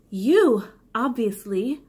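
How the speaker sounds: "You" loud and punched; all caps you. Shown as a demonstration. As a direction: hit "You" like it's in capitals. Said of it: "You" is in all caps".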